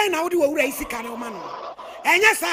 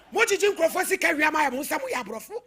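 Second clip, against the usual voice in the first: barely audible; 5 dB quieter than usual. Real, not acted. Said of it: "Your voice is very far".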